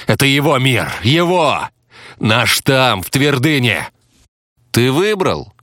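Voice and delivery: high-pitched, heated outburst; angry accusation. A narrator's reading. Hunter accusing a player of picking the wrong side, heated. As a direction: fling each phrase out, pitched high.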